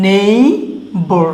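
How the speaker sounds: নেইবার said very slowly as NAY-bar; teacher slowing down নেইবার; slow model word. Shown as a demonstration. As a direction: stretch নেইবার out slowly for learners. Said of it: "আর এখানে দেখো নেইবার".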